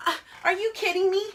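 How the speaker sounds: can't believe this guy; outraged disbelief. Retold or imitated. Scolding the movie husband, loud and incredulous.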